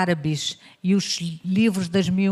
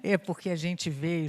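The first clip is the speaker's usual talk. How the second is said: ordinary talk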